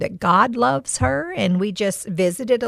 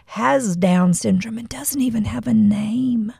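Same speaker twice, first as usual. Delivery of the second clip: heartbroken whisper. Real, not acted. Retelling weeping on the bus.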